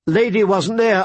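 put-on high, angry young girl's shout. A narrator's reading. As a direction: yell it out at the king, furious. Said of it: "Arya shouted angrily".

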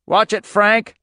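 high, loud warning scream. A narrator's reading. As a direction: warn Frank at the top of the voice. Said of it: "Irv Manders screamed".

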